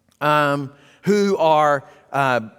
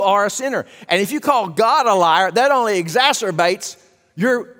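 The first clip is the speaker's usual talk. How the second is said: rising preacher's warning; 2 semitones higher than usual. Acted. Preacher warning the congregation about calling God a liar, rising intensity. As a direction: voice climbs as he warns the congregation.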